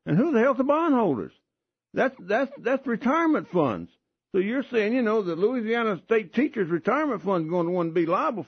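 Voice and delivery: high-pitched indignant rant; rising outrage; heated outrage. Real, not acted. Outraged rant about liability.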